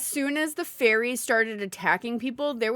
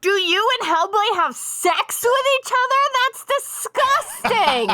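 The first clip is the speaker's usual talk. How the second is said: disgusted mock voice; 6 semitones higher than usual. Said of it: "He was literally like".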